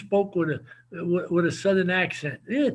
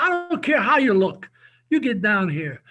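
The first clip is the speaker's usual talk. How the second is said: loud, higher, pushy command; insistent order; 3 semitones higher, 6 dB louder than usual. Retold or imitated. Head coach ordering his partner over, in a loud, higher insistent voice. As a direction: call him down here now, loudly.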